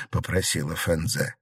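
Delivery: usual speaking voice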